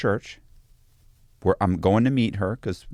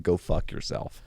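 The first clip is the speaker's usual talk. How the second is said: slow, breathy whispered dismissal; muttered retort; 2 semitones lower, 3 dB quieter, slower than usual. Retold or imitated. His reply to girlfriend's breakup text, whispered slowly. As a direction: breathe it out slowly, done with her. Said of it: "my response was like".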